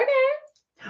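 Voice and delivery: unimpressed okay. Retold or imitated. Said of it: "I was like".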